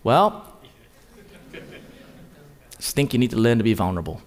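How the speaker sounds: a hint of the pastor's flat, low deadpan; mild imitation of a deadpan pastor; pastor's deadpan manner. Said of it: "this is the way he talks".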